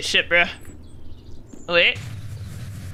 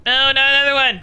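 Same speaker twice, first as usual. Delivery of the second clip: exasperated wail; 6 semitones higher, 4 dB louder than usual. Real, not acted.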